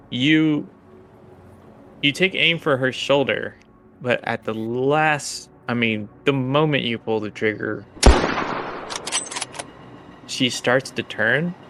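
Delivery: measured, suspenseful scene narration; game master narration. Acted.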